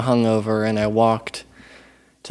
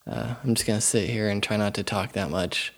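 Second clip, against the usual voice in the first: sedated. Real, not acted. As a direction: speak groggy and numb-mouthed. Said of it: "if I sound kinda, like, sedated, it's 'cause, 'cause I am".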